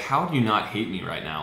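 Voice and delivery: ordinary talk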